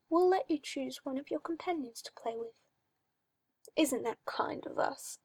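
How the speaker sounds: a hint of a creepy, cooing master; mildly sinister coaxing; lightly voiced oily magister. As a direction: purr it like a condescending owner. Magister cruel offer.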